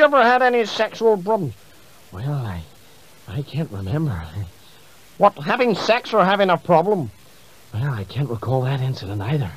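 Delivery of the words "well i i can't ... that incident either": put-on low, vague old Reagan voice; doddering Reagan who can't remember; Ronald Reagan impression.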